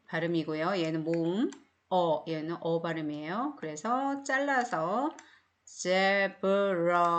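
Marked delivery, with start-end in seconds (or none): 5.6-7.1 제브라 with a British eh vowel; teacher giving the British zebra. Shown as a demonstration. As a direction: say zebra the British way, zeh-bra. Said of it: "주로 영국식 발음으로".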